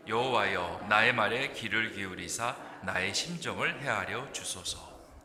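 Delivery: slow, solemn reading of the verse; slow solemn scripture read. Acted. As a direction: read the psalm with reverence. Reads scripture verse slowly.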